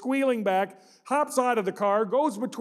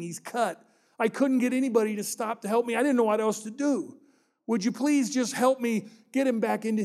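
put-on higher, tearful child's plea; pleading child; 3 semitones higher than usual. Crying boy begging the driver to stop and help, tearful plea. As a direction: beg the stranger like a crying boy. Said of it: "the kid's just starting to cry".

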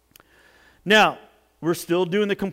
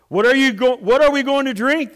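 raised, louder complaint; demanding; 7 semitones higher, 7 dB louder, faster than usual. A narrator's reading. Thirsty Israelites confronting Moses, demanding. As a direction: demand it with pitch and volume up. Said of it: "they demanded".

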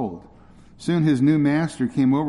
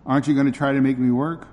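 utter amazement. Acted. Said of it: "cried Joe in utter amazement".

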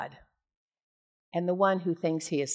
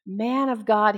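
begging plea. Acted. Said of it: "do you notice the difference here?".

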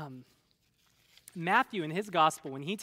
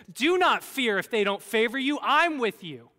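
a touch of divine authority, raised and louder; God's reassurance; 4 semitones higher, 6 dB louder than usual. Retold or imitated. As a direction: lightly voice God giving firm reassurance. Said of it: "what God says is".

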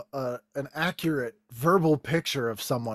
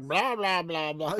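hammed-up diva; 5 dB quieter than usual. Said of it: "I'm way overacting".

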